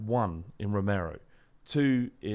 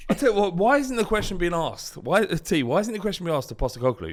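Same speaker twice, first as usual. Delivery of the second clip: high, loud indignant questioning; heated demand; 7 semitones higher, 5 dB louder, faster than usual. Real, not acted. Fan demanding the manager be questioned, raised and indignant. Heated football squad argument.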